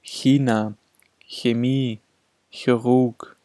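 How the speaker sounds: "Chemie" opening on a palatal ch, no k or sh; front ch at onset. Shown as a demonstration. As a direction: model "China" and "Chirurg" with an initial front ch. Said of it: "mit vorderem ch am Beginn".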